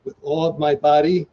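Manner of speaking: firm, clear vow prompt; officiant's lead line. Shown as a demonstration. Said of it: "please repeat after me".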